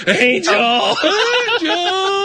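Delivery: loud high call to a far server; yelling across the room. Retold or imitated. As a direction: shout her name across the bar. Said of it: "yell across the room at my server".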